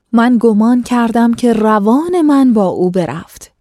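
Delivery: measured, formal storytelling read; classical story reading. A narrator's reading. Host reading an old tale to listeners, formal narration.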